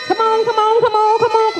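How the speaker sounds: high, eager urging; cheering on. Real, not acted. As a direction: egg the room on. Urging the group on.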